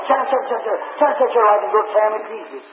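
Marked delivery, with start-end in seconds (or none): 0.1-1.5 higher, lighter squirrel chatter; imitating a scolding squirrel. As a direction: mimic a noisy little squirrel's chugging. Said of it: "He was sitting on a little stump going".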